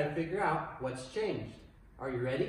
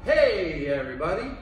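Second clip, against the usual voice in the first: yelled call; 5 dB louder than usual. Shown as a demonstration. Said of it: "when you hear me yell out".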